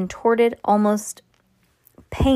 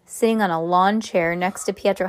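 ordinary delivery, nothing marked

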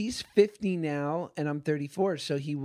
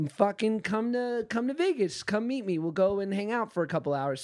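put-on Boston accent; 5 semitones higher than usual. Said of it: "he has a Boston accent".

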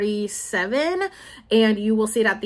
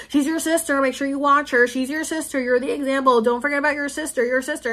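imitating parents, higher, lecturing and repetitive; nagging parents; 4 semitones higher than usual. Eldest daughter mimics parents nagging her to watch sister, mock lecturing. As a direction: lightly parrot parents drilling a duty into you.

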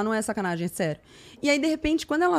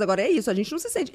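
normal talking voice

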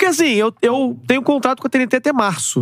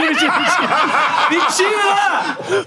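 laughing denial; 6 semitones higher, slower than usual. Real, not acted. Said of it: "até porque não tem mais ninguém".

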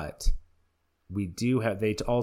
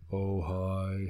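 mock Seattle accent; 3 semitones lower, 5 dB quieter than usual. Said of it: "What would it be?".

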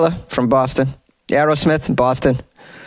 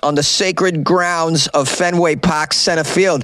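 mock tough guy; 4 semitones higher than usual. Mock tough defender of Fenway.

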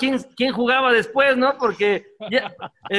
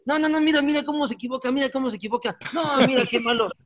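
higher, griping about a teammate's mistakes; mocking Borghetti; 4 semitones higher than usual. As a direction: play the whiny bench critic. (Borghetti quejándose desde la banca, en tono de burla)

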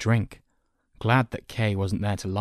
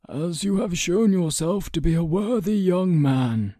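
high, louder, lilting praise; approving counsellor; 10 semitones higher, 5 dB louder than usual. A narrator's reading. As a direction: praise the lad in a lifted storybook voice. Counsellor praises the eager boy.

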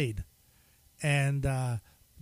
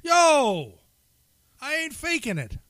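put-on Irish accent; 9 semitones higher, 3 dB louder, slower than usual. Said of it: "fake being Irish".

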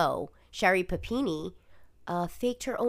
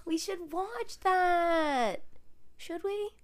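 slow, higher gasping suggestion; eager gasp; 9 semitones higher, 5 dB quieter, much slower than usual. Real, not acted. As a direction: gasp and plead to watch it.

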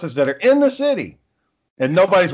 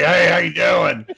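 mock drunk greeting; slower than usual. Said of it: "sound like a drunk fucking idiot".

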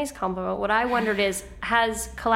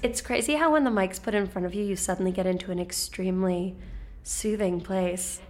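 public radio host. Retold or imitated. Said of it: "try to do your public radio voice".

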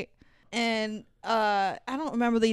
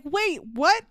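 incredulous, pitched up at first; mock bewildered; 3 semitones higher than usual. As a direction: question it in baffled disbelief. Mock bewilderment at sudden kiss.

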